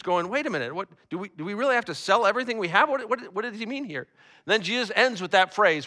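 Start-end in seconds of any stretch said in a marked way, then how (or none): 0.3-4.1 lightly acted bewilderment, stumbling over the question; a little confused. Disciples questioning what Jesus means, mildly confused. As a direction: ask haltingly, as if puzzled. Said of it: "the disciples are a little confused".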